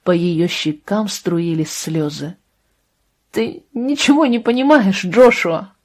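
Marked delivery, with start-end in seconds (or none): 3.3-5.7 voice breaking. Acted. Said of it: "заговорила она срывающимся голосом".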